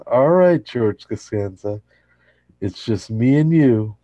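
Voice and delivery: rally your last comrade; mock rallying cry. Jerry telling George they're the last two, rallying. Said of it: "turns to George and says".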